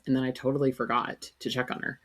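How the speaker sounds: ordinary talk, nothing marked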